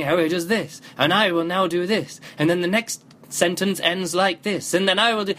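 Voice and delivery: measured, repeating sentence cadence in imitation; mimicked narrator pace. Reviewer showing how the narrator talks, mimicked samey pace. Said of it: "There is this way of talking, this kind of pace that he has".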